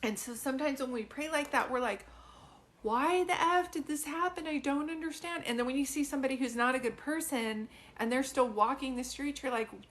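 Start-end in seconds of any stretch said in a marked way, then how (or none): 2.8-5.4 higher-pitched, bewildered protest; exasperated plea. Retold or imitated. Reader voicing mourners questioning God, exasperated. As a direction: demand an answer, imitating a frustrated prayer.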